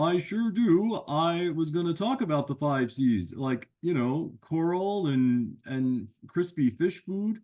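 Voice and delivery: a cheeky friend who butts in; a hint of a goofy puppet buddy; Sammy the sidekick.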